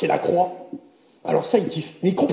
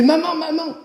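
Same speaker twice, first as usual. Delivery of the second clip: put-on higher, eager little boy voice; a kid bursting to ask his mom; excited child; 3 semitones higher than usual. Child excitedly asks mother.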